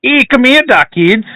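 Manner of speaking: Scouse attempt drifting towards Irish; Irish-sounding Scouse. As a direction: copy Liverpool but land nearer Irish. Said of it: "Sounded more Irish".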